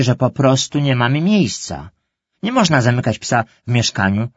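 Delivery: zniecierpliwiona mama, wyżej i głośniej. Acted. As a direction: stanowczo ucinasz temat psa po raz kolejny. Mother scolds children about dog. (mama zniecierpliwiona tłumaczy dzieciom, lekko zagrana)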